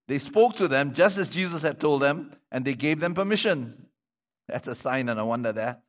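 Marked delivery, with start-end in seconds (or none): 0.1-3.9 measured, projected Bible reading; scripture reading. Acted. Preacher reading the colt story to the congregation, projected reading voice. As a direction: read the passage out clearly to the congregation.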